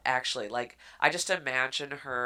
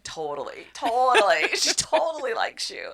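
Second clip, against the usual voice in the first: mock eager agreement; 9 semitones higher, 6 dB louder than usual. Friend reassures.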